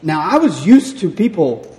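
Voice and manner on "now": ordinary delivery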